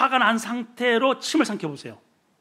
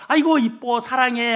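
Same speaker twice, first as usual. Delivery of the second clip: doting praise; 4 semitones higher, 4 dB louder than usual. Acted. Acting out praise to wife, child.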